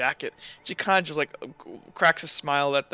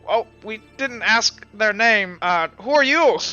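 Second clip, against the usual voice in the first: higher, slow, loud confused reply; drawn-out puzzled answer, voice pushed up; masked plague doctor; 5 semitones higher, 6 dB louder than usual. Acted. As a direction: call it slowly through a mask.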